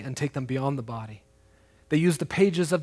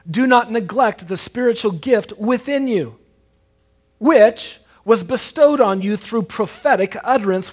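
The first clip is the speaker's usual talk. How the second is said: raised, louder preacher's exhortation; forceful scripture reading; 5 semitones higher, 8 dB louder than usual. Acted. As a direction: proclaim the verse with weight.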